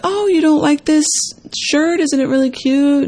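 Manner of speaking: high-pitched mock-defensive questioning. Woman retelling her comeback to her boyfriend, defensive. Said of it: "And I got defensive".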